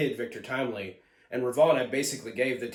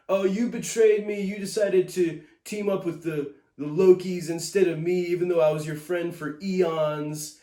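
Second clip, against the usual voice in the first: higher, louder mock complaining voice; a self-pitying whine, pitched up; whiny Ravonna; 4 semitones higher, 4 dB louder than usual. Reviewer mocking Ravonna complaining to Mobius, whiny. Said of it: "she just comes off as so whiny".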